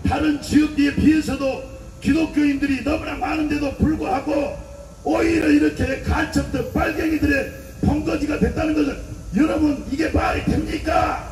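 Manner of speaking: preaching at full force to a crowd; fiery rally speech. Acted. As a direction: hammer each line out to a street rally.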